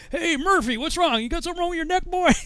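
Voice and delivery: high-pitched imitation of a barking sergeant; drill sergeant. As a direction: call out the recruit in a high mock shout. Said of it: "the next class".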